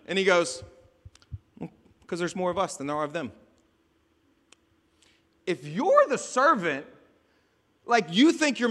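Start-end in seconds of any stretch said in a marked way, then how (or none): 2.1-3.3 quick, casual, unbothered explanation; calm. Acted. Master answering panicked servant, calm. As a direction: toss it off calmly. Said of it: "just calmly takes a sip of his coffee".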